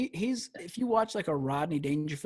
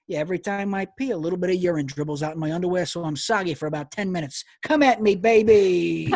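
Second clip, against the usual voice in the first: lightly put-on Italian New York accent, loud at the end; cocky Italian New York accent building to a shout; confident Italian New York; 5 dB louder than usual. Shown as a demonstration. Comic showing anything sounds confident, Italian New York accent. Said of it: "nothing more confident than an Italian New York accent".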